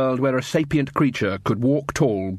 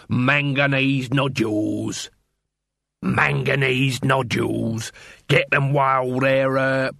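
street vendor hawking; slower than usual. Acted. Dibbler hawking rocks to trolls.

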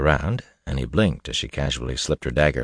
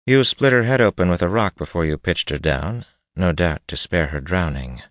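noblewoman voice; 2 semitones higher than usual. Acted. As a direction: voice her like a cold noblewoman. Narrator voices Cheyenne.

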